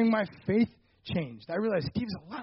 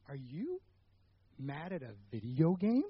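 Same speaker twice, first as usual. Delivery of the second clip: amused question; 5 semitones lower, 9 dB quieter than usual. Retold or imitated. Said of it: "and goes".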